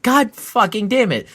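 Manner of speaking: high, loud exasperated curse; frustrated curse. Retold or imitated. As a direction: spit it out in frustration. Frustrated retelling, locked doors.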